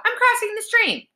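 very high strained yell; high-pitched defiant call, moderate volume; yelling back. A narrator's reading. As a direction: holler back from a distance. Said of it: "Connor yelled back".

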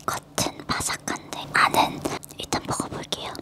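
speaking between crunchy bites; talking while chewing. Real, not acted. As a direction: mouth partly full of snack. Seen 0: Bites at -7 and +5.8; speaks between bites, cheeks working.

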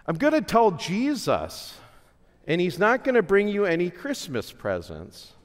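high, mock-shrieking threat to a child; hammed-up impression of a yelling mom; mock screaming mother. Mother in aisle five threatening her crying kid, mock high yell. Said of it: "this lady is screaming at her kid".

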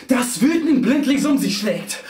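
high-pitched, driving, breathless-sounding recitation; frenzied verse recital. A narrator's reading. Narrator swept along by screeching riders, frenzied recital. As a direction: ride the rhymes like a stampede.

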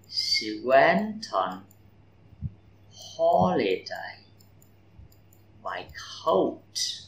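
slow, went stressed in She went on; broken into slow chunks for repeating; slow stressed reading. Shown as a demonstration. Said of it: "trọng âm câu". (đọc chậm từng cụm, nhấn went)

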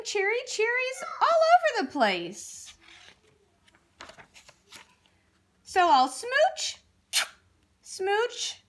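hammed-up delight, lifting high in pitch; joyful revelation. Kissed fish finds he is a kiss-kiss fish, overjoyed.

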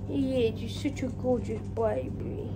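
soft cooing over the cat; doting pet talk. Real, not acted. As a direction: fuss over him tenderly. Cooing praise at her cat.

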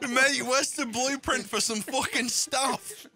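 laughing. Real, not acted. Laughing at kitchen chaos.

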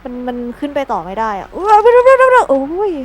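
struggling effort. Real, not acted. Struggling to climb in game.

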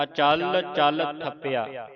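slow ਅਚਲ ਚਲ ਥੱਪਿਆ, each chal tightened; weight both chal sounds in ਅਚਲ ਚਲ; added gemination. Shown as a demonstration. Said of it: "ਅਧਿਕ ਲਾ ਕੇ ਉਚਾਰਨ ਕਰਨਾ".

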